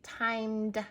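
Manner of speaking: "timed" with a held m and a distinct d; timed with D sound. Shown as a demonstration. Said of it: "Add D sound to the end".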